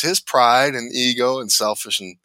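wife's voice. Retold or imitated. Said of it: "She goes".

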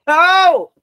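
loud high laughing no; shocked cry. Real, not acted. Told the answer is wrong.

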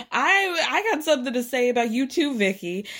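hint of Kenya grabbing the mic; Kenya calling out. Kenya challenges Vicki from the crowd, high mock call-out. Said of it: "and she's like".

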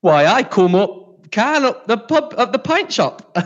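high-pitched, slow Geordie impression; slow, drawn-out Geordie invitation to the pub; Geordie accent. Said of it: "Imagine you're now Geordie".

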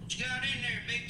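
hammed-up redneck voice, high; redneck guy. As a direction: leer it out like a country redneck. Imitating a redneck at the store.

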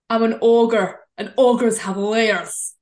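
lightly voiced Shrek ogre line; Shrek impression. Doing Shrek for her co-host: a light ogre voice. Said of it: "I'll do a little phrase".

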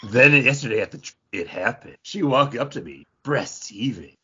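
lightly hammed sultry reading; mock Penthouse reading. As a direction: tease the friend's steamy reading. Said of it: "read it like it was a Penthouse letter".

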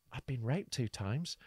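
softly, under the voice; retold quiet aside. Imitating her turning to the hosts so the audience wouldn't hear, quietly. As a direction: imitate a confidence kept from the audience. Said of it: "turned around to us and quietly".

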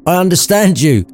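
put-on high old man's voice, reasoning; reasoning Scrooge. A narrator's reading. Scrooge reasons with the pointing spirit, high-voiced. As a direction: reason with the silent ghost. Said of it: "reasoned Scrooge".

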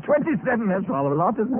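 a laughing disbelief at "Twenty-seven"; amused surprise. Acted. Astonished echo of the number.

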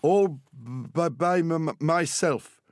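put-on proud boy tripping over his words. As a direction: stammer it out with pride. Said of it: "James said proudly".

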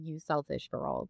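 low, cold scolding line; a hint of a stern aristocrat scolding; Lady Catherine's intonation. Speaker imitating Lady Catherine scolding Lizzie, cold reproach. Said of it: "Like, that intonation".

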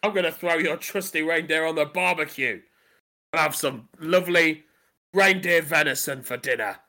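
low, softened threat with pauses; menacing. Acted. Landlord threatening to barbecue the reindeer, low and menacing. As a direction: drop the voice and savour the threat.

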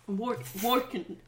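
"working" ending in a plain n; dropped G. Shown as a demonstration. Trying the Irish rule, "working" without its g. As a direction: slowly drop the g off "working". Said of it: "Drop your G's".

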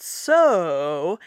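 "so" rising then falling then rising; sarcastic lilt on "so"; sarcastic tilde tune. Shown as a demonstration. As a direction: trace the tilde shape on "so". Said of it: "actually makes the shape of the tilde".

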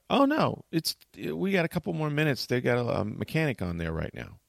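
very high, sweet agent's voice; calm the panicked passenger; reassuring gate agent. Retold or imitated. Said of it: "They're like".

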